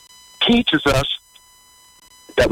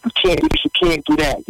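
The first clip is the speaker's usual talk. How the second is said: taunting enemy; 11 semitones higher than usual. Acted. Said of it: "the enemy tries to lie to you and say".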